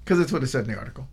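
quick words through laughter; laughing. Real, not acted. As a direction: laugh while answering. Laughing over a silly detail.

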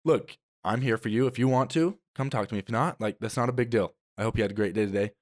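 calm, open parent offer; a relaxed, reassuring parent; gentle offer. Shown as a demonstration. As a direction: say it kindly then let it go. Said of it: "giving me the option of saying".

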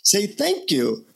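put-on instructing guru in an Indian accent; lilting Indian-accented teacher voice. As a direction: imitate an Indian guru giving a lesson. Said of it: "he says in his Indian accent".

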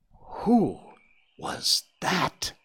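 high, awed little voice with a quake; young Faline, awed and trying to sound bold; quaking exclamation. A narrator's reading. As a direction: exclaim it high, a touch unsure. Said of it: "had a quake in it".

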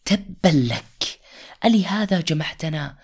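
angry retort. Acted. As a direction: spit it back at him in scorn. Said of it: "فخرج أبو لهب قائلا".

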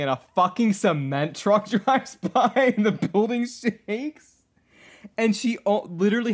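high, loud, drawn-out disbelief; high-pitched and slow, half laughing in disbelief; incredulous outburst. Real, not acted. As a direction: exclaim it in amused outrage, stretching the words. Reader appalled at the story's absurdity.

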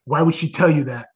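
low, halting, measured voice; steady yourself and let them down gently; imitating someone composed after an outburst; a singer calming down. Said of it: "then he catches a breath".

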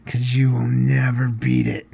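hushed, secretive tease; whispered playful boast; conspiratorial whisper. Real, not acted. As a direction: let the men in on a secret. Teasing men about the next podcast.

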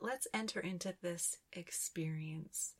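soft unvoiced whisper, as if spirits spoke; hushed spirit invitation; whispered quote. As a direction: breathe the invitation in a hush. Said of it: "It's like they're saying".

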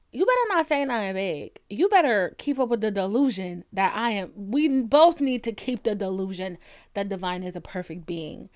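hammed-up stern warning; mock warning. Acting out warning to blunt men.

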